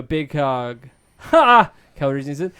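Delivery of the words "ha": loud, high burst of a laugh; hearty laugh. A narrator's reading. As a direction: bark out a big friendly laugh. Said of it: "breaks into a laugh".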